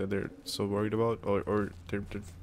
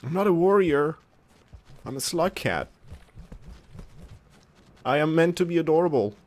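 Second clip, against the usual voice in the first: playful protest; 7 semitones higher, 3 dB louder than usual. Real, not acted. Playing cute slug cat.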